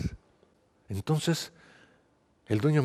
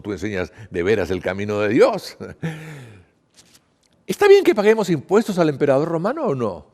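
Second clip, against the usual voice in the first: hypocritical Pharisee; 5 dB louder than usual. Acted. Pharisees trying to trap Jesus with flattery, hypocritical. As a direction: flatter the teacher, then lift into the loaded question.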